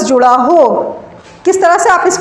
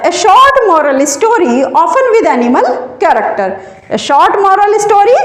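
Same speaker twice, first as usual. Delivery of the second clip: slow, word by word for note-taking; slow dictation; much slower than usual. Shown as a demonstration. Teacher dictating a definition to students, slowly and deliberately.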